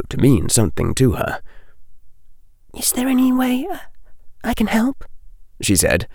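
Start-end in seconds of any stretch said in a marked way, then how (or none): 2.7-5.0 put-on high, soft girl's voice, hesitant; lightly voiced schoolgirl, tentative; young girl Hermione. A narrator's reading. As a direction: ask it gently, afraid of the answer.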